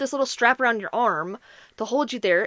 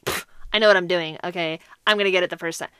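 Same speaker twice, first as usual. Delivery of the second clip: lower, dismissive scoff at the patient; cocky nurse; 5 semitones lower, faster than usual. Retold or imitated. Nurse waving off the patient's tip, smug and dismissive. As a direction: brush her off like a know-it-all. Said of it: "take it as".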